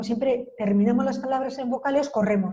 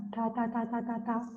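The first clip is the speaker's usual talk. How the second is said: quiet ta syllables; 8 dB quieter than usual. Shown as a demonstration. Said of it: "Nosotros es".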